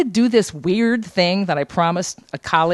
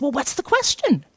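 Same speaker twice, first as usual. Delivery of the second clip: impatient curiosity; 8 semitones higher than usual. Retold or imitated. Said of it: "now she's interested".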